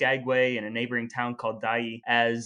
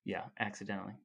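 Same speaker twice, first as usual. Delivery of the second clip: sarcastic doubt; 5 semitones lower, 13 dB quieter, faster than usual. Real, not acted. Sceptical echo of accidentally.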